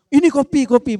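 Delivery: mock taunt, stress on kopi. Shown as a demonstration. Teasing Mbak Winda about her mole, mock taunt. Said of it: "Kopi, kan intonasinya kan".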